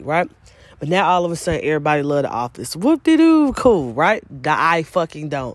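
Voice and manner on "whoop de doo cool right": sarcastic. Real, not acted. Mocking fans of The Office.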